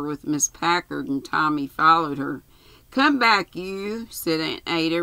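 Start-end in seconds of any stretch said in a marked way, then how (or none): 2.9-4.1 higher, louder call to come back; raised voice. A narrator's reading. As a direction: call someone back sharply. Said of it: "raising her voice".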